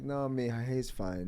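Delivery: lightly voiced unbothered grandmother; imitated reassurance. Grandmother to worried mother, calmly reassuring.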